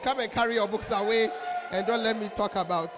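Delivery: loud scold of the reverend; preacher quoting the reverend's loud order. Retold or imitated. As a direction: order him off firmly. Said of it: "Reverend said".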